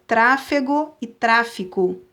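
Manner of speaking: slow, clear tráfego then tráfico; careful contrast. Shown as a demonstration. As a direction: set tráfego against tráfico, slowly. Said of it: "São palavras apenas parecidas".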